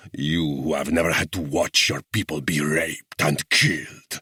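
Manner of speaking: high, loud, slow furious tirade; thundering rage. A narrator's reading. Guerrilla chief rages at the English officer, thundering. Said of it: "he thundered".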